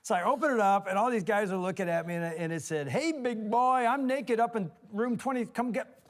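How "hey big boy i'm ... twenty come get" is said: higher, louder note read to a room; re-enacted loud read-aloud, cut short. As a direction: blurt out a private note for all to hear. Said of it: "I read it out loud".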